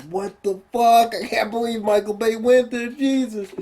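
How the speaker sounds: high, stunned disbelief; a mock moviegoer gasping in shock; shocked audience. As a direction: react like you can't believe it. Imagined audience reaction, shocked.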